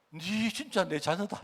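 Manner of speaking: God reassuring his people, slow and tender; tender fatherly God. Acted. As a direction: gently promise they are his children. Preacher voices God's loving assurance.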